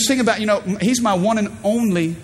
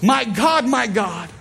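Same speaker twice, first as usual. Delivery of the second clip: retold loud cry; 4 semitones higher, slower than usual. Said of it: "crying out with a loud voice".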